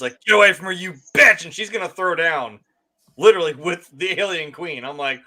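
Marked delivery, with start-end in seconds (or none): 0.2-1.4 louder, higher imitation of a heroine's battle cry; with emotion. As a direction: belt it out as a fighting challenge. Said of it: "some emotion".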